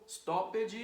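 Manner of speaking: "stoppage" in two syllables, stop-ed with a voiced ending; wrong extra syllable. Shown as a demonstration. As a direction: add a mistaken second syllable to "stoppage". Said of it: "So there is no stoppage".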